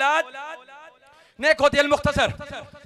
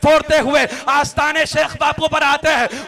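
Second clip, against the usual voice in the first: raised, scolding preacher's shout; fiery rebuke; 5 dB louder than usual. Real, not acted. Imam warning the shrine crowd, raised scolding shout.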